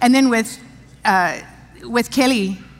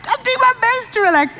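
exasperated; 12 semitones higher than usual. Retold or imitated. Retelling labor frustration.

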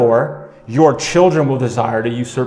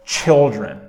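slow emphatic reading; much slower than usual. Shown as a demonstration. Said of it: "pastor slows the verse".

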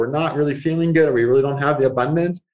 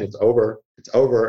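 low, matter-of-fact finality; firm inner voice; 5 semitones lower than usual. Acted. Inner voice telling you it ended, low and final. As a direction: state it as settled, pitched down. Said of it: "Inner voice saying".

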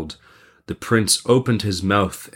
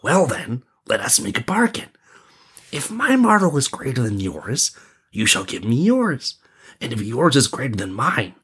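prince; 4 semitones higher than usual. Acted.

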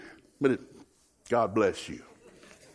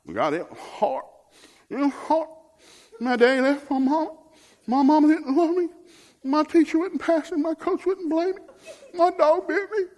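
high, whiny mock complaint, pitched way up; whiny complainer; 4 dB louder, slower than usual. Preacher mocking a thumb-sucky Christian's sad song, high whiny voice. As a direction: whine it like a self-pitying crybaby.

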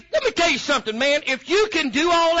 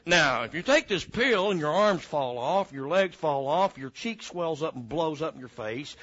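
lower, softer disclaimer read; side effects disclaimer; 7 semitones lower, 4 dB quieter than usual. Retold or imitated. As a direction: rattle off the fine print. Reading drug side effects.

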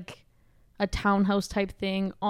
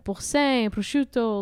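French-accented food names; slower than usual. Real, not acted. Listing fancy resort food to friends, French accent. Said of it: "say it with a French accent".

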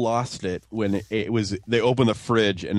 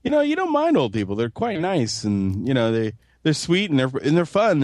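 British sitcom character; 3 semitones higher than usual. Retold or imitated. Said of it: "one of the people goes".

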